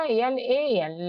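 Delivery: slow separated letters; slow spelling. Shown as a demonstration. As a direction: dictate slowly. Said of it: "लाल में क्या हो जाएगा". (धीरे-धीरे अक्षर)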